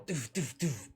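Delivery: short punchy "doof" bursts; imitated gunfire. Game master narrates shots up the barrel, imitated gunfire. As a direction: voice each shot as a separate thud.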